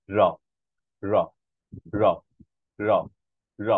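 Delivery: র tapped with the tongue tip against the gum ridge, over and over; a short tap on each র; repeated tapped r. Shown as a demonstration. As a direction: drill the single tap of র. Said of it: "যেমন".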